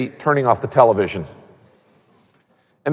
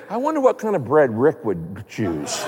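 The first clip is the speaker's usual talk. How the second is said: softer, laughing through an imagined shopper's thought; laughing mock thought; 4 semitones lower, 4 dB quieter than usual. Preacher mocking what shoppers think, laughing softly. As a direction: giggle as you mock the idea.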